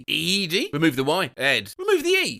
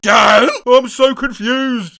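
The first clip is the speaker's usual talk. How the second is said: mock confused outburst; 5 semitones higher, 9 dB louder, slower than usual. Reading baffled bot reply.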